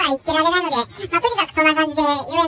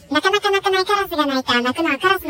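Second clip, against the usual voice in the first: lightly raised comic singsong line; a light hint of a comedian's gag voice; Shimura Ken voice; 3 semitones higher than usual. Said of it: "こんな感じの声でやってたんじゃないでしょうか". (軽く真似たコント声)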